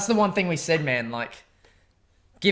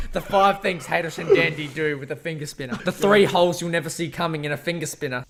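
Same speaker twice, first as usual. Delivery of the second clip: louder, hyped headline read; clickbait video narrator; 2 semitones higher, 5 dB louder than usual. Pretend. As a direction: pitch it like a clickbait title.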